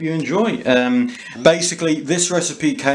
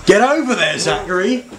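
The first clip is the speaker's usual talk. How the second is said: barked order; 6 semitones higher than usual. Acted. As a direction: order him into the corner. Host ordering guest into corner.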